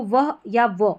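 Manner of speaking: "वह" with an h, then plain "व". Shown as a demonstration. Teacher showing WH pronunciation, "वह या व" sounded out separately. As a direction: give both readings, "वह" breathed out and "व" without h. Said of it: "ये इस तरीके से प्रोनाउंस होगा".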